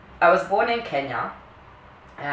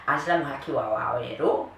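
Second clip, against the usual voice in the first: Kikuyu accent; faster than usual. Shown as a demonstration. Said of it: "That's how you say it in a Kikuyu accent".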